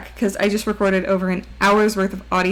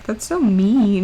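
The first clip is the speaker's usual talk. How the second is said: mock hurt; 4 dB louder, slower than usual. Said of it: "Don't make fun of my voice cracking".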